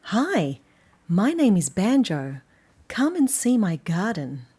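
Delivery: slow, loud, friendly storybook dog; Banjo's cheerful voice. Acted. Reader voicing Banjo welcoming children to his garden, slow and loud. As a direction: greet the children warmly as Banjo.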